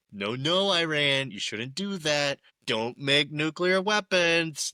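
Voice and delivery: mocking the leaders' toothless warnings; mock scolding. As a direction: wag a finger at a naughty kid, mockingly. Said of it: "mocking politicians' scolding of Iran".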